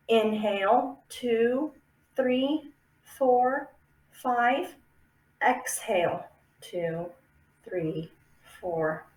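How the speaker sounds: slow breath count, inhale then exhale; counted breathing demo. Shown as a demonstration. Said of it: "where I'm counting".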